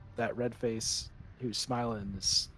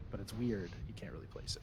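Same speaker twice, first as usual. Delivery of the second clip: eerie hushed whisper; 3 semitones lower, 8 dB quieter than usual. A narrator's reading. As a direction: drop to a whisper for the creepy part. GM building eerie mood.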